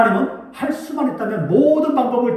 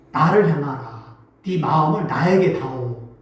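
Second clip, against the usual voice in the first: God calling; 6 semitones lower, slower than usual. Acted. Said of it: "이렇게 한단 말이에요".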